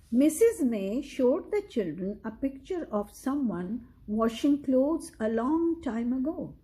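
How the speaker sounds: steady read-aloud storytelling voice; story narration. A narrator's reading. Parent reading a picture book to a child, measured storyteller. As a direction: read the story clearly to a young listener.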